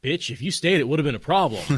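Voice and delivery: loud, high mock assertion of dominance; forceful. Perrin's second try, asserting dominance over her, forceful. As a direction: punch it out forcefully, hammed-up. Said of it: "she responds to a forceful assertion of dominance".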